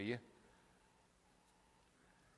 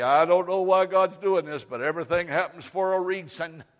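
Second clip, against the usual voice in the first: loud, high, fervent proclamation; preaching shout; 6 semitones higher, 14 dB louder than usual. Real, not acted. Preacher rousing the congregation, loud and high. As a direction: belt it out to the room.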